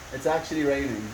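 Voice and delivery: hushed wonder at the rain. Real, not acted. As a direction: murmur it in quiet disbelief. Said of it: "repeats it quieter".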